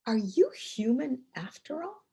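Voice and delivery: retold wonder, rising on YOU; amazed question. One of her guys to his boss, amazed. Colleague's astonished question, first take.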